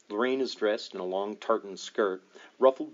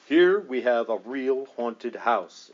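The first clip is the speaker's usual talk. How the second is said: declaring; 4 dB louder, slower than usual. Acted. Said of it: "Ed declares".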